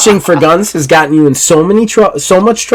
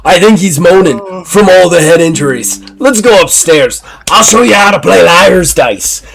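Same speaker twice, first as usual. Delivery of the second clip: high, laughing cover-up; nervous breezy pirate; Simon's voice; 3 semitones higher than usual. Acted. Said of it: "Simon's like".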